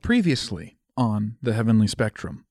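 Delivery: measured previously-on intro; a light touch of recap announcer. Acted. Host introducing last episode's recap, lightly announcer-like. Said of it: "what's a good previously on".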